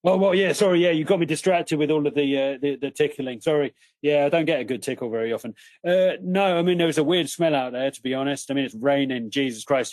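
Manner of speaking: lightly voiced, matey wild dog, a bit put out; the dingo chatting to the party, nattering away; chatty dingo voice. A dingo complaining to the party about losing his pack, in a lightly voiced matey tone.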